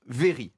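"very" said the French way; Frenchified "very"; French pronunciation. Shown as a demonstration. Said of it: "je prononce à la française".

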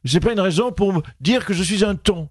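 Marine Le Pen impression. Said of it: "Marine Le Pen, bonjour".

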